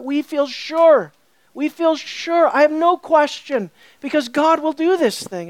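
firm, emphatic assurance; confident. Retold or imitated. Preacher voicing the author's confidence in God, emphatically. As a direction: declare it without a doubt. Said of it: "He has a confidence based on who?".

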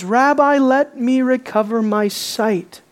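tender, reverent plea. Acted. Blind man runs up to Jesus, pleading tenderly. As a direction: address him carefully and lovingly, drawing out the words. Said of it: "Tenderly, reverently, carefully, lovingly".

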